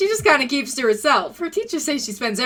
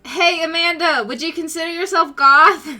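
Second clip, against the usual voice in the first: raised voice calling across; 6 semitones higher, 6 dB louder than usual. Acted. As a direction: call out to her, louder.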